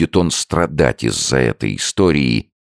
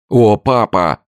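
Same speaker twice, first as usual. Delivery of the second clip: loud, high cry breaking toward tears; exclaiming; 9 semitones higher, 5 dB louder, slower than usual. A narrator's reading. Son cries out to his father before bursting into tears. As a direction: burst out, about to sob. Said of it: "воскликнул Джон и разразился слезами".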